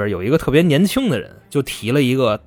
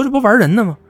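a pitched-up, fed-up cry of disbelief; exasperated outburst; 8 semitones higher, faster than usual. Retold or imitated. Officials fed up with the no-show extortionist, exasperated high cry. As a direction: sound like they're being jerked around. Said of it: "当局就急了啊".

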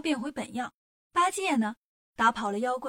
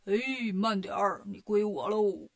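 gloating demon; 3 semitones lower, slower than usual. Acted. Demon king grabs Tang Monk.

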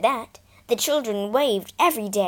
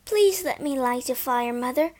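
begging; 4 semitones higher than usual. Acted. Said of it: "begged Bobby".

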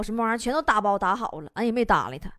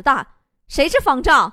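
mildly irritated, louder demand; exasperated teacher; 5 dB louder than usual. Acted. Teacher gets no answer at roll call, exasperated. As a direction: demand to know who it is, losing patience. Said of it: "老师就急眼了".

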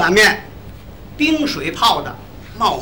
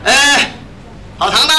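raised, higher call for service; calling the waiter; 4 semitones higher than usual. Acted. Diner summoning the restaurant's waiter, calling out. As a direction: hail the waiter across the room.

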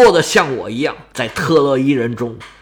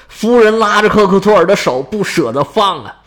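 plain reading voice

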